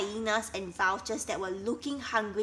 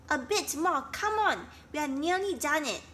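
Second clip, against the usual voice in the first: encouraging; 6 semitones higher than usual. Acted. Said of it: "encouraged Flocky".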